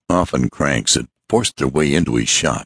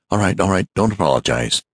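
rapid; 4 semitones higher, faster than usual. Acted. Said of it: "broke in the man in rapid tones".

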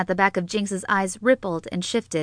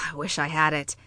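sighing, softer and lower; wistful; 4 semitones lower, 5 dB quieter, faster than usual. A narrator's reading. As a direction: breathe out a soft, low wish. Wistful wish after a sigh.

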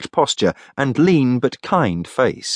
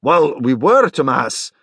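slightly loud reply, pitched up; raised voice; 4 semitones higher, slower than usual. Acted. Greg answers over the babble into his comm, raised voice. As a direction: speak up over a noisy room. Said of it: "Greg said loudly into his comm".

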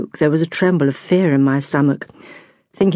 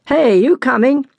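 higher, louder call across the road; shouted call; 7 semitones higher, 3 dB louder than usual. A narrator's reading. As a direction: call out to a friend across the street. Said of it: "came out of a shop ... and shouted".

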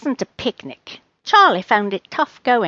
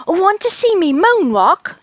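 high, loud, keen question; eager cat; 9 semitones higher, 5 dB louder than usual. Acted. Charlie offers Rose a moonwalk, high and eager. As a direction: ask excitedly in a high voice.

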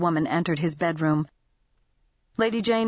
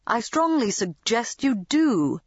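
calm; 4 semitones higher than usual. A narrator's reading. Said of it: "Lady Bentley said calmly".

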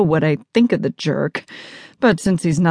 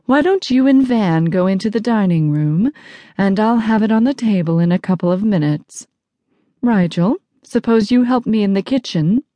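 higher, politely pleasant hostess; pleasant mom; 4 semitones higher than usual. Acted. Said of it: "My mom sounds perfectly pleasant".

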